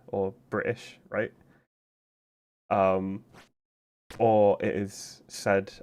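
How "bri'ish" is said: "British" with the T skipped completely; "British" with a catch in place of the T; dropped T. Shown as a demonstration. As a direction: say "British" as "Bri'ish". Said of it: "skip over the soft T completely".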